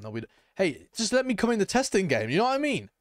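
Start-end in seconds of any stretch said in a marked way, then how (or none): 2.3-2.9 voice crack. Real, not acted. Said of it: "Voice crack".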